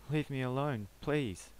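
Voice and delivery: frantic begging to the driver. Acted. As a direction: cry out for mercy. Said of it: "Peter begged".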